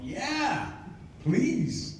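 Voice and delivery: high, breathless eager yes; eager squeal. Retold or imitated. Young actor jumps at meeting Gene Kelly, eager and high. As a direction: jump at the chance like a starstruck kid.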